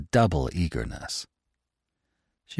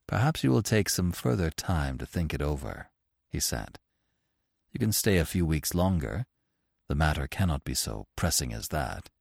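low, cool and measured; lightly voiced stern author; 3 semitones lower, 4 dB quieter than usual. Orth answers the mother coolly, a touch stern. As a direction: keep him dry and detached.

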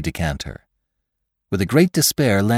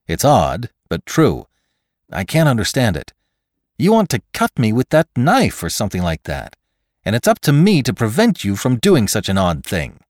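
lightly voiced reasoner, a little higher; McClure; 4 semitones higher, 3 dB louder than usual. Man behind a chair reasons with his attacker, earnest. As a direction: reason earnestly with your attacker, pitch slightly lifted.

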